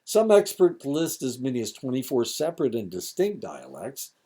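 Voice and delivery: lightly projected lecturer's reading; a touch of formal read-aloud; reading lesson aloud. Real, not acted. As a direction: read the text out to the room. Reads lesson text aloud.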